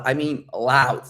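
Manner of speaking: "loud" stretched out long; stress on loud. Shown as a demonstration. Coach explains what speaking up means, drawn-out stress on "loud". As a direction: lean slowly into the word "loud". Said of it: "When I say you have to speak loud".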